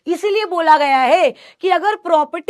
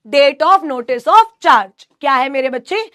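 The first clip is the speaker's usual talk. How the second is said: slow dictation; 3 dB louder, much slower than usual. Shown as a demonstration. Dictating section title slowly.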